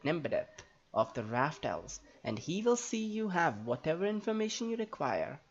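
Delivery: lightly voiced, formal elf helper; in-character dialogue reading. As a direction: read it like a stately fantasy character, lilting. Reads Nembadeth's game dialogue in character.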